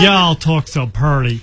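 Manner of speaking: drawn-out, hammed-up Southern US accent; mock Southern accent. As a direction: put on a slow Southern drawl. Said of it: "it's not a Southern one".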